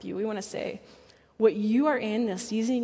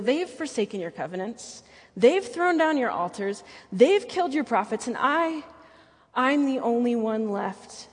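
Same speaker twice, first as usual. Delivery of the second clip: hammed-up self-pitying prophet, louder; mock-dramatic lament, pushed louder; dramatic Elijah; 2 semitones higher, 4 dB louder than usual. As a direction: overplay the martyr's complaint. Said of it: "mustering up the dramatics".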